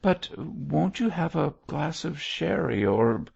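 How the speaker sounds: graciously offering, left hanging. A narrator's reading. Missus Pansey offers the departing bishop sherry, gracious. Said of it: "graciously enough".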